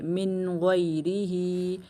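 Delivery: मिन गैरिही with the noon said clearly before ग़; slow recitation of मिन गैरिही. Shown as a demonstration. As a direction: read मिन गैरिही slowly, noon pronounced plainly. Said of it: "यहाँ पर मिन नहीं करेंगे".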